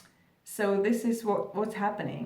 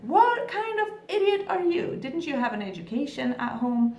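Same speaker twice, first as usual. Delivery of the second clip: retold angry waitress, much higher and a bit louder; imitating a rude waitress yelling; mock shouting; 5 semitones higher, 3 dB louder than usual. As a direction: snap at the customer like a rude waitress. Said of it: "shouting at you".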